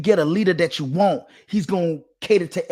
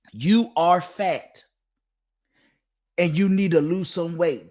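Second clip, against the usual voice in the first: imitating Kevin Samuels. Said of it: "Kevin Samuels will literally say to a woman".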